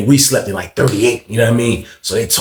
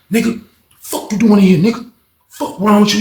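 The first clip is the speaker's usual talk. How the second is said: higher, sharp confronting voice; angry confrontation; 7 semitones higher than usual. Retold or imitated. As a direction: get in his face.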